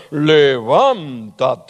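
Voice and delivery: slow, drawn-out godlike command; voice of God. Retold or imitated. Pastor retells voicing God for a song, slow mock divine command. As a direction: stretch it out like God calling Lazarus. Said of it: "busqué yo el tono más grave".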